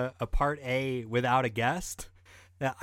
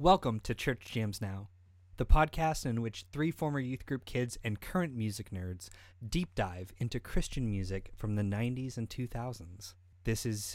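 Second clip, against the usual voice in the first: soft, hushed, put-on radio announcer voice; 3 semitones lower, 5 dB quieter than usual. Podcast host opens the show's intro: NPR voice.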